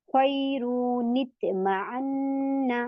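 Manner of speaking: slow chanted recitation with a falling close; Quranic recitation. Shown as a demonstration. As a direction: draw the words out as in tajweed. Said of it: "इस तरीके से आता है ना".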